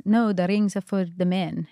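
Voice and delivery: put-on slow, light Israeli accent. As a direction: Israeli market seller accent. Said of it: "this is my best Israeli accent".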